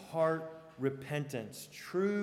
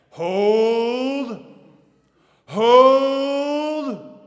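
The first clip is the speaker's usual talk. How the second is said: much louder, higher drawn-out shout of hold; William Wallace battle command; 9 semitones higher, 19 dB louder than usual. Retold or imitated. Wallace shouting to his men as cavalry charges, commanding. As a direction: command the line to stand firm. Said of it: "William Wallace keeps saying".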